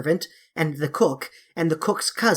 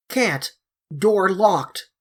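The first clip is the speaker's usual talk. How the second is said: deepest voice, slow and loud; 3 semitones higher, much slower than usual. Acted. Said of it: "the same voice replied".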